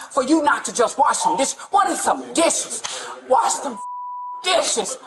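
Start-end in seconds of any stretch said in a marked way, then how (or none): 1.7-5.0 slow, half-laughing exasperated shout; angry rant. Real, not acted. Mother ranting to police about her son's chores, exasperated shout. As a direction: bark it out in disbelief.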